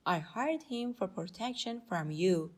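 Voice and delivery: slow, deliberate phrases for learners; teacher demonstrating at a slow pace; slow model reading. Shown as a demonstration. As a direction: read it out slowly for students. Teacher models the English slowly.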